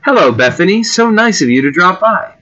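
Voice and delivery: British lady greeting a guest; British accent. Acted. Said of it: "human female with a British accent".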